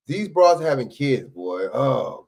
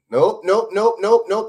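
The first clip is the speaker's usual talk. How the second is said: louder rapid nopes; firm refusal; 6 semitones higher, 6 dB louder, slower than usual. Real, not acted. Arguing with the woman, loud repeated no. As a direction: shut her down hard.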